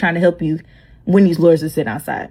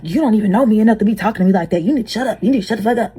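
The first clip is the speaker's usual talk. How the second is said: cussing out; faster than usual. Retold or imitated. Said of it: "to cuss Miss Melissa out".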